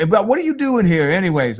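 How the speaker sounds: lightly voiced old man pressing for an answer; nosy old man. Old man asks why she's here, mildly pushy.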